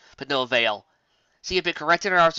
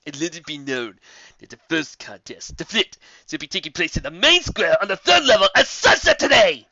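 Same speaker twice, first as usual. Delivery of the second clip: building to loud announcement; booming proclamation; 4 semitones higher, 9 dB louder than usual. A narrator's reading. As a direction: announce it grandly. Commander continues his proclamation.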